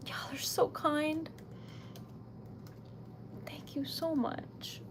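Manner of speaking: slow, half-whispered gratitude; moved, hushed. Real, not acted. Streamer thanking viewers for their kindness, touched and hushed. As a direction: let the thanks come out slowly, almost whispered.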